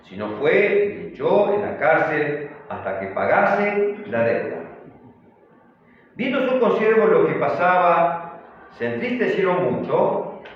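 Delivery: measured, emphatic Bible reading; scripture reading. A narrator's reading. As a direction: read the verse out firmly to the congregation. Reads the scripture verse aloud.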